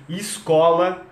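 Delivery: "escola" said slowly as "iscola"; I-initial escola. Shown as a demonstration. Teacher showing the Brazilian I before S, "escola" as iscola. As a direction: start "escola" on a clear I sound. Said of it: "eu tô colocando o I".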